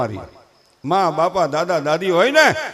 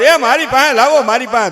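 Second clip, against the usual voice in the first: fussing grandfather; 3 semitones higher, 5 dB louder than usual. Acted. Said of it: "તા તો grandfather".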